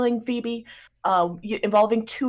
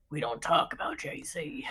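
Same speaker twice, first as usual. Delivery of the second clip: a secretive hush, let the words die; hushed warning; 5 semitones lower, 8 dB quieter than usual. Retold or imitated. Jace one hushing the others.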